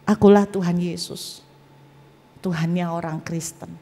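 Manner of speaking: lightly voiced solemn divine answer; measured, dropping low at the end; Tuhan Yesus. The voice answers who he is, solemn. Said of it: "Suara itu menjawab saya".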